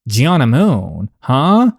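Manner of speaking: slow, stern, drawn-out name; stern call-out. Acted. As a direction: call her name slowly, as a last warning. Teacher calls out student again.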